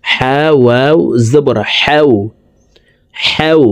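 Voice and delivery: "হাও" begun with h from the middle of the throat. Shown as a demonstration. Teacher drilling ha's articulation point, mid-throat h. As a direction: spell it slowly, drawing out throaty "হাও". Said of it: "হা হরফকে হলকের মধ্যখান থেকে উচ্চারণ করে পড়ব".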